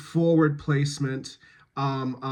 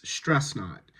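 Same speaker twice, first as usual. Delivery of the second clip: "stress" emphasised, falling away on "not"; stress before "not"; 3 semitones lower, 4 dB quieter than usual. Shown as a demonstration. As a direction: lean on "stress", let "not" drop. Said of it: "stress is always on the non-negative".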